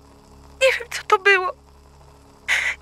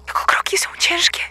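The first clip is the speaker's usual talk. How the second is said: whisper; faster than usual. Acted. Hiding from intruder, whispering.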